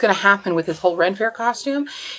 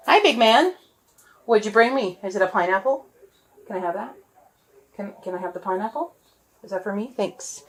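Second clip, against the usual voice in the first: pet talk; 2 semitones higher than usual. Real, not acted. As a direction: coo at the dog sweetly. Greeting the dog with pineapple.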